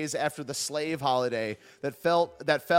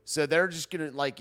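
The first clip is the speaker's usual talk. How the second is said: ordinary talk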